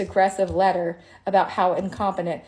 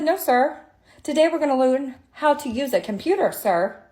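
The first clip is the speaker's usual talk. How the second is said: stern schoolteacher tone; 5 semitones higher than usual. Retold or imitated. Lecturing IRS agent, retold.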